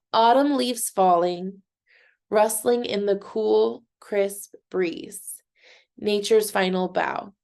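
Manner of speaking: measured poem reading, pausing between lines; haiku reading. Shown as a demonstration. Teacher reading an example haiku to students, measured recital. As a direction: read it line by line with deliberate pauses. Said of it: "I'm gonna read a haiku".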